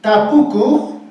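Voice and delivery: tapuku said slowly, each syllable ta-pu-ku clear; slow model word. Shown as a demonstration. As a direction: spell out tapuku slowly for the class. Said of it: "Pero en quechua se dice". (tapuku pronunciado despacio, sílaba por sílaba)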